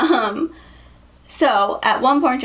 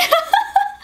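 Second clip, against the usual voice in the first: high-pitched burst of giggles; high laugh. Real, not acted. Telling viewers the funny story, bursting out laughing. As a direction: crack up at your own punchline. Laughs after quoting the insult.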